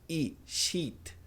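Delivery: sheet with a long smiling I; long EE sound. Shown as a demonstration. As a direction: smile through the I of sheet. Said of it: "Dê um sorrisinho e alongue esse som de I".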